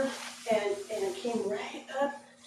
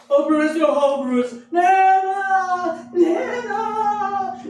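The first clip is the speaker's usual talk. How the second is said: high, loud sing-song cry for help; child yelling for grandma while trapped; yelling for Nana; 9 semitones higher, 10 dB louder, slower than usual. Retold or imitated. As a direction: call Grandma from up the fence. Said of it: "Yelling Nana at the top of my lungs".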